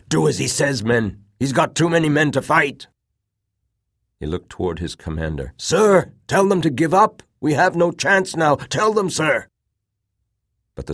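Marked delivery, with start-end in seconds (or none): 0.1-2.9 loud, high urgent call; shouting. A narrator's reading. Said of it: "shouted out". 5.6-9.5 loud, high frantic begging; desperate plea. A narrator's reading. Corporal begs dying commander.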